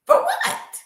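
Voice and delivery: very high, loud shocked squeal. Real, not acted. Hearing the couple is in counseling, a high shocked squeal.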